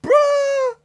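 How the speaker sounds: high, loud shocked bruh; shocked exclamation. Real, not acted. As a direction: blurt it out in disbelief. Reacting to shocking news.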